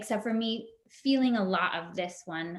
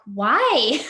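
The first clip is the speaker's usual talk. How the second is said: louder, laughing mock protest; laughing disbelief; 8 dB louder, much slower than usual. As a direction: laugh through a baffled why. Retelling her own exasperated reaction.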